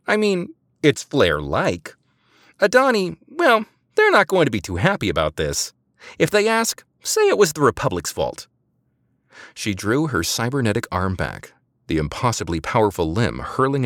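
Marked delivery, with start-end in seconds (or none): 0.1-8.5 high, loud, tough woman's voice; Eliza voice. A narrator's reading. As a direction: play her high and brash. Eliza voiced, much higher.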